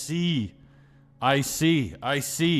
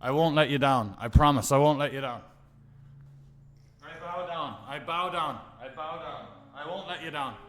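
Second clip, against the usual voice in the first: hushed vow; 8 dB quieter than usual. Pretend. Mock vows to the poker gods.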